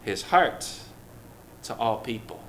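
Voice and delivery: breathy whispered "a secret". Acted. Pastor to the congregation, sharing a secret in a whisper.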